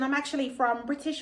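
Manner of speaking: put-on British accent; mock London accent. A chick introducing herself on camera, mock London accent. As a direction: imitate someone from London. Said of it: "talking with a Londish accent".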